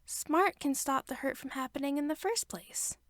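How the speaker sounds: put-on a little boy making his case; child reasoning with his mother; small boy. A narrator's reading. Boy argues.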